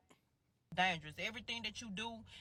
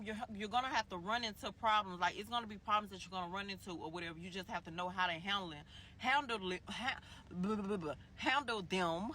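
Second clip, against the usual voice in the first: stuttering. Real, not acted. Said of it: "I'm stuttering too motherfucking much".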